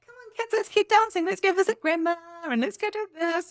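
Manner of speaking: put-on high, loud singsong to the kids; cheery mum voice. Calling the kids to dance, high singsong cheer. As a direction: sing it out brightly to the kids. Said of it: "I was like".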